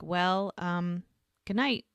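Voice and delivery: halting, mildly uncomfortable goodnight; awkward. Retold or imitated. He says goodnight on her porch, mildly awkward. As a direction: leave gaps as if unsure how to part. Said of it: "like, uncomfortable".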